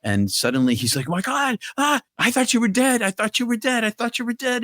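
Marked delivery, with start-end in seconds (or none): 1.1-4.6 high-pitched, overwrought outcry; breathless-fast mock outburst of disbelief; retold shocked relief. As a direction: imitate a frantic friend crying out, voice leaping way up. Retold friend sees he is alive.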